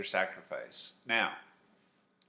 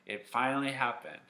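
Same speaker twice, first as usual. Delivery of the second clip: mildly excited, higher voice; excited for her; 3 semitones higher than usual. Acted. Eli sharing Hannah's good news, mildly excited. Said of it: "Eli was so excited for her".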